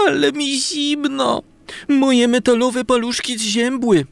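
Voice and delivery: high, slow shivery voice; cold little whisk. A narrator's reading. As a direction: squeak it out, chilled to the bone. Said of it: "powiedziała trzepaczka".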